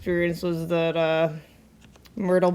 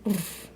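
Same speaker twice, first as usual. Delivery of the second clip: tiger chuffing; 11 dB quieter than usual. Shown as a demonstration. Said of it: "you can't do it as long".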